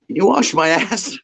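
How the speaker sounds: high, laughing through the quoted request; barely holding back the laugh; retold request cracking up; laughing quote. Retelling friend's absurd request.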